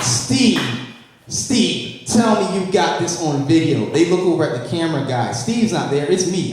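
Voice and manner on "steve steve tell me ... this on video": calling Steve, higher and eager; excited calling out. Acted. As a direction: shout for the cameraman, thrilled. Crew calls to cameraman.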